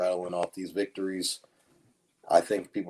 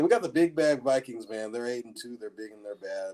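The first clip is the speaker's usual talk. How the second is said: sarcastic. Pretend. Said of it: "He is a thousand percent being sarcastic".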